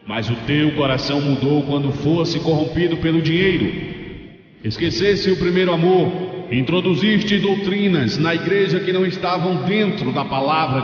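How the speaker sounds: lightly voiced angel passing judgment; accusing angel. Angel lists a pastor's sins, solemnly accusing. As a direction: pronounce the charges with mounting force. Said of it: "e o anjo falou".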